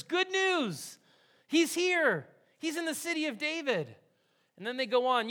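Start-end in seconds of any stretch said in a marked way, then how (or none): 0.0-3.9 high, bright good-news call; excited angel. Acted. Angel bursting in on the shepherds with news, excited and high. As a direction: announce it like a joyful herald. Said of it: "the angel says to the shepherds".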